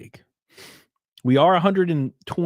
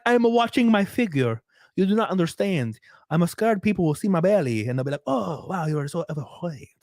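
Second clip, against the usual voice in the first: high mocking girly voice; higher voice playing a vain friend; mocking Zia; 4 semitones higher than usual. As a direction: mimic a fussy dieter, whiny and high. Mocking Zia's diet excuse.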